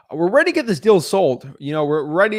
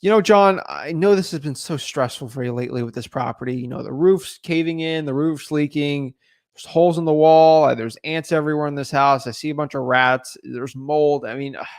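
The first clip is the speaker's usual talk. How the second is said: empathetic buyer. Acted. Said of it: "you might have a conversation here".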